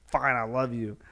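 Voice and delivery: grudging kid, lightly acted; mild mock reluctance; forced giving-in. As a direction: give in as if made to. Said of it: "that forced, like, the parent tells the kid".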